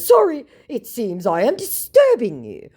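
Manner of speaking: high, loud, huffy mock scammer. Mocking scammer's hurt reply to her, high. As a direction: play him offended. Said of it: "he goes".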